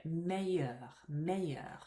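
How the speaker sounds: meilleur as MAY-yur, the double L a y glide; no L sound. Shown as a demonstration. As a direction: model meilleur in French without any L. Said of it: "there's no hint of an L when you say it".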